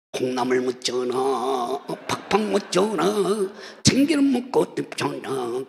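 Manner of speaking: lightly done Lee Ju-il comic bit; a hint of the comedian's routine; Lee Ju-il impression. Pastor quoting comedian Lee Ju-il's old routine lightly. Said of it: "이주일이".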